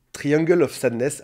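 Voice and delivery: a playful, lightly done English accent on the film title; self-mocking English accent, barely put on. Shown as a demonstration. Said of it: "Admirez mon accent anglais".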